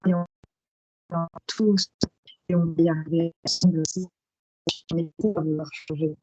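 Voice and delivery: choppy cutting-out microphone; mic cutting out. Real, not acted. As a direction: speak through a failing mic with dropouts. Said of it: "ton micro coupe, euh, on entend très mal".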